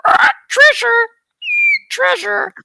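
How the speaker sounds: hammed-up pirate with a squawked, high, loud cry; loud, theatrical pirate voice. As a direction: play a pirate crying out for loot. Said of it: "said the pirate with the steering wheel".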